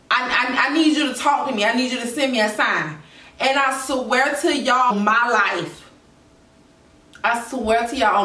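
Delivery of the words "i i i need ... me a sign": pleading. Retold or imitated. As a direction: beg earnestly for a sign. Retold plea to God for a sign.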